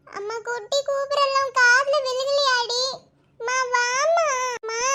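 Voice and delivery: drawn-out, plaintive call for mother; whiny calling out. Acted. Child calling for her absent mother, whiny and drawn-out. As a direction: call out slowly in a child's whine.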